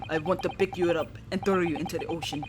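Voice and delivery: a lightly voiced, grumbling Russian threat; menacing Russian sailor. The sailor threatening to throw the hero overboard, in a mild Russian accent. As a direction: growl the threat, then hold back.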